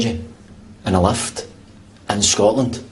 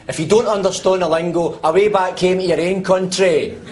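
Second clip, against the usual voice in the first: higher-pitched irritated outburst; indignant rant; 6 semitones higher than usual. Acted. Man telling off the lift that cannot understand him, indignant. Passenger ranting at uncomprehending lift.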